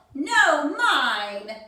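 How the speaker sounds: a loud holler back. Acted. Rival squirrel hollering back at Cyril. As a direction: holler to claim it first. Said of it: "hollered Bruce".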